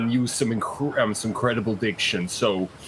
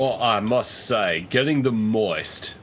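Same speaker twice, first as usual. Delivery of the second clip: slow deliberate diction; slower than usual. Acted. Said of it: "You said a funny word".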